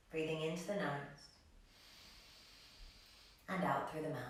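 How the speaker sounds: soft, unhurried breathing guidance; calm yoga teacher leading breathwork; guided meditation. Acted. Leads calming breathing practice.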